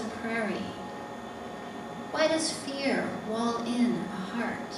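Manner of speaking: deliberate poem recital in separate phrases; poetry reading. Acted. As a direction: read it as verse, pausing between images. Reads her poem aloud.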